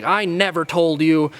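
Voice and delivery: mock him as a high, whiny complainer; whiny dad voice. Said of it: "this high-pitched, whiny voice".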